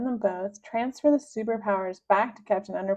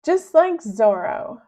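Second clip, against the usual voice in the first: slow, loud, grand boast; pompous boast; 2 semitones higher, 7 dB louder, slower than usual. Acted. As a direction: savor it like a hero. Melvin boasting.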